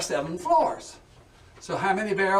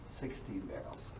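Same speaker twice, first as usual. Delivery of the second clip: fading count; 11 semitones lower, 16 dB quieter than usual. Shown as a demonstration. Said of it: "tour guide counting barrels".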